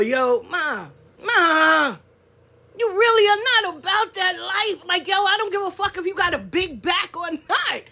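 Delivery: the challenger, slowing at the end; mock tough challenger. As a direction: play the loudmouth who thinks she's got one up on you. Mocking a challenger online.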